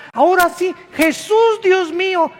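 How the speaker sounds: high, loud, frantic cry to God; panicked cry. Retold or imitated. Preacher imitating frightened people calling on God, high panic. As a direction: yelp it like someone terrified in a quake.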